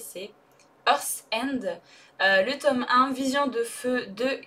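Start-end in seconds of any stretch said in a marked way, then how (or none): 0.9-1.6 book title said with a self-conscious English accent. Shown as a demonstration. Booktuber apologizing to viewers, then a careful English accent. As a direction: try the English title in your best French-accented English. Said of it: "désolée pour mon accent anglais".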